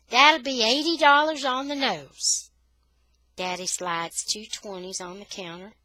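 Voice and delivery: high, loud saleslady voice; brisk store lady. A narrator's reading. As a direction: announce the price briskly. Store lady quoting price.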